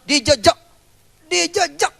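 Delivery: dijejak pulled up high and stretched; mock indignant dijejak; rising dijejak. Shown as a demonstration. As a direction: throw dijejak up high like a complaint.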